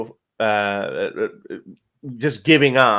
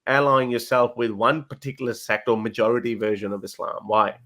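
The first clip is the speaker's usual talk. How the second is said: indignant protest. Retold or imitated. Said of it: "They'll be like".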